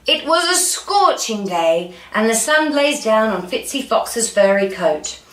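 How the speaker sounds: lively read-aloud storytelling; story narration. A narrator's reading. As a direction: read it out like a picture book for children.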